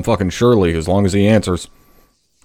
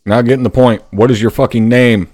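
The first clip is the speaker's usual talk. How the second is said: barked, louder and higher; angry drill sergeant; 3 semitones higher, 5 dB louder than usual. Real, not acted. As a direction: demand the name like a furious first sergeant. First sergeant scolds private.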